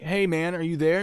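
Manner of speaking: high, loud call through a door. Retold or imitated. Agent checks whether the man is there, calling out. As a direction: call to someone shut inside.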